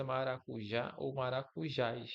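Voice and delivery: "maracujá ou maracujás" with the last syllable strong in both; stress on final syllable. Shown as a demonstration. Teacher giving oxytone examples, last syllables of "maracujá ou maracujás" stressed. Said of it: "a sílaba forte é a última".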